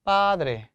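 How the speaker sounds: padre with the first vowel stressed, falling away; stress on second-last syllable. Shown as a demonstration. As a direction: lean on PA in padre. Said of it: "강세표가 없을 때".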